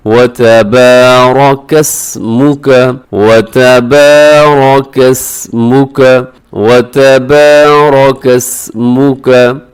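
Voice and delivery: slow melodic recitation with a clear मु. Shown as a demonstration. Teacher reciting tabarakasmuka correctly for students. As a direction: chant वतबारकस्मुका slowly, मु not मो. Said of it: "मीम पेश मु होता है".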